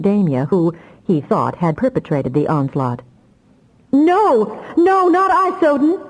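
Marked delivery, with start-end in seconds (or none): 3.9-6.0 shrieking far higher in panic. Acted. Damia shrieking at Soden as he strikes her, terrified. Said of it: "she shrieked".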